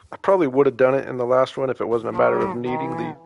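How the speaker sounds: talking through the hiccups. Real, not acted. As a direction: speak with hiccups breaking in. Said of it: "excuse me, got the hiccups".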